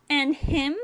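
high, loud challenge; indignant Ferengi boy. A narrator's reading. Ferengi boy challenges the doctor, indignant.

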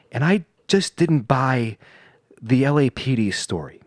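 slow, droning monotone impression; monotone YouTuber. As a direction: drone slowly like an obsessed YouTuber. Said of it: "he has a very monotone voice".

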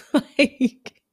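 high burst of laughter; real laugh. Real, not acted. Laughing at her own affirmations, high and bright.

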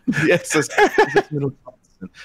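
saying it through laughter; laughing. Real, not acted. Game master amused by a silly ship name, laughing. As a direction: crack up while repeating the name.

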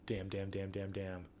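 breathy whispered thinking; whispered muttering. Real, not acted. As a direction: whisper damn over and over. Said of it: "I should have a story for this".

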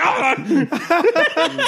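high startled yelp. Retold or imitated. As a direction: jump at a sudden slap. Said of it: "like he just got slapped by a parrot".

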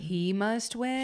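slow, high disbelieving echo of "He must win"; incredulous echo. Real, not acted. Friend echoes the message in slow disbelief. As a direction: repeat "He must win" slowly, rising in disbelief. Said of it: "Wait, does he say".

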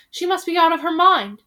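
loud scornful jeer; jeering villager. Acted. Villager jeering at the children, loud scorn. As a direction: shout it at the children like they're mad.

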